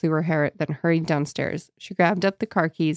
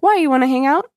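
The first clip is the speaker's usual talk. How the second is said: casual friend; 8 semitones higher, 5 dB louder than usual. Retold or imitated. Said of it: "normal, like".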